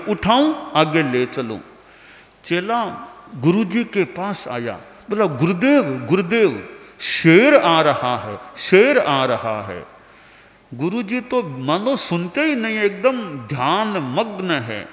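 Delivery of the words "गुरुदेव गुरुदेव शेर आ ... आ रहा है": alarmed disciple calling his guru; urgent warning. Acted. Disciple urging meditating guru, alarmed call.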